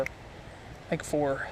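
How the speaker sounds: slow unvoiced whisper to himself. Real, not acted. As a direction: whisper the guess, slowly. Muttering count to self.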